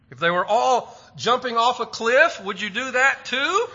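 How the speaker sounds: mock scolding mom. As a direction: play the outraged mother for laughs. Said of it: "every kid has heard mom say".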